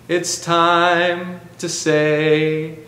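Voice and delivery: drawn out slowly; slow chant; slow first take. Shown as a demonstration. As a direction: stretch every word. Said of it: "a little bit faster this time".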